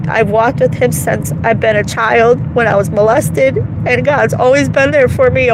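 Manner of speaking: emotional, defiant insistence. Real, not acted. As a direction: insist it with real feeling. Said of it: "after that emotional minute".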